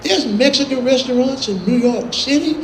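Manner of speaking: a hint of naive astonishment; a country singer. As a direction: imitate a country friend's wondering question. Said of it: "He goes".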